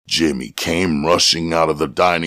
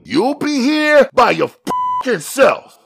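much higher, louder warning; loud statement; 4 dB louder than usual. A narrator's reading. Buddy warning Jimmy, loud and firm. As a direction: lay down the warning firmly. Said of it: "Buddy stated loudly".

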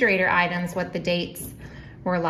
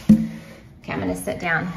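breathless, puffing between words; winded after moving around; out of breath. Real, not acted. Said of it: "I'm already out of breath".

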